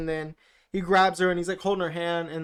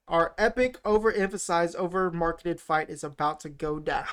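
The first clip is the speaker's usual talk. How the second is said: mock epic announcement. Shown as a demonstration. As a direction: read it like an overblown movie promo. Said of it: "So my notes say".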